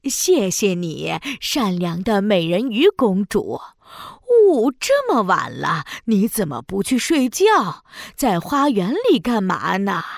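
put-on old granny voice. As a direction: sweetly play the old granny. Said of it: "海女巫变成了一位老奶奶". (装成老奶奶的声音)

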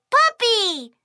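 ordinary delivery

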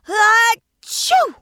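loud acted sneeze; big sneeze. Dragon sneezes loudly.

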